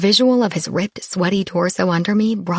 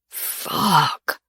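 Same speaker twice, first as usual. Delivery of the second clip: growled. A narrator's reading. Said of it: "he growled".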